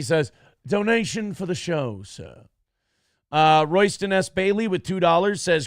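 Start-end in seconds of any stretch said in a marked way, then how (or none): 0.6-2.5 butler voice. Acted. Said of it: "he wants me to say this in Butler voice".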